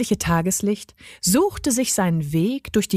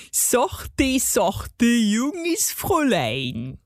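honeyed, slowing gnome voice; cooing gnome; 3 semitones higher, much slower than usual. A narrator's reading. Gnome placates the young lady, cooing. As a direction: coo it, stretching the last words out. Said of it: "säuselte er".

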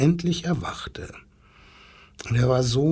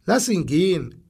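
lightly raised wildcat call; mild call; 5 semitones higher than usual. Acted. Wildcat calls to the zookeeper, lightly raised. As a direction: call it out a bit higher. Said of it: "schrie plötzlich die bunte Wildkatze".

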